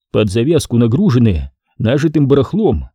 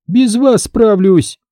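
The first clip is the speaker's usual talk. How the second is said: sharp retort; 10 semitones higher, slower than usual. A narrator's reading. Trader sharply refuses the car offer. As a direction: cut her off sharply. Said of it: "резко ответила она".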